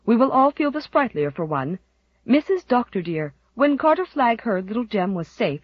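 put-on bustling, chatty old housekeeper; a pleased, fussing housekeeper; cheerful housekeeper. Susan voiced at length.

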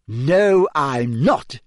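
lightly voiced girl, beaming and proud. A narrator's reading. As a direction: grin through the words.

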